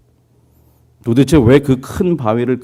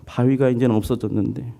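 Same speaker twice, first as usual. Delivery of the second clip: a hint of a weak man moaning, softer; feeble whining; 4 semitones higher, 4 dB quieter than usual. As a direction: whine feebly to God, lightly voiced. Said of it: "계속 저렇게 비리비리 그러고 살았을 거예요". (약하게 칭얼대는 병약한 남자, 살짝 흉내)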